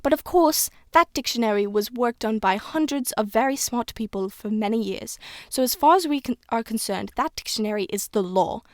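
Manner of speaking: put-on lightly British old woman teacher; shaky attempt at a British schoolmistress; slightly off British accent for an old teacher. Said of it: "This, my British accent is getting worse and worse".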